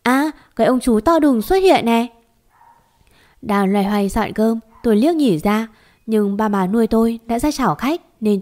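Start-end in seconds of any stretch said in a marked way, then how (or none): 0.0-2.1 a bright, higher call across the room; calling out loud. Acted. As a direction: announce it out loud like an excited child. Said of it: "lớn tiếng nói lên". (con bé reo to báo có khách, giọng cao và lớn)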